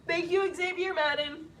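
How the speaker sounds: thanking someone while tearing up; thanks caught on rising tears; tearful. Real, not acted. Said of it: "this one's gonna make me cry".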